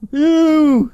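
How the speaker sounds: sudden high yelling call; shouted. Retold or imitated. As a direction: bark it at a stranger. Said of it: "and just go".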